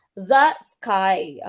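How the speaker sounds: "The sky" with weak THE, strong SKY; iambic stress. Shown as a demonstration. Teacher giving an iambic example, stress on SKY in "The sky". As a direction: lean on "sky" after a light "The". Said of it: "sa iambic".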